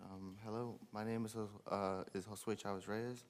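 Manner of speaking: quiet, hesitant and nervous. Real, not acted. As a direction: stumble shyly over your name. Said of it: "I'm a little nervous".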